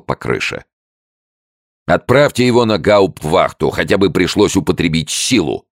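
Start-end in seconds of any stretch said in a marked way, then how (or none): 1.9-5.7 loud, high burst of words; blurted out. A narrator's reading. Furious order to jail the soldier, blurted loud. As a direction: fire it off in one go. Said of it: "выпалил сержант".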